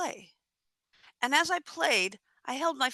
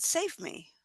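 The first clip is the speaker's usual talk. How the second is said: soft, higher pleading voice; pleading wolf; 6 semitones higher, 7 dB quieter than usual. Acted. Relaxed wolf to the person in the tree, softly pleading. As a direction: beg quietly for rescue.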